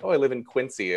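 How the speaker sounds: Quincy said with an s, "KWIN-see"; outsider's mispronunciation. Retold or imitated. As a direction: newcomer saying Quincy as spelt, s not z. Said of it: "As I quickly learned".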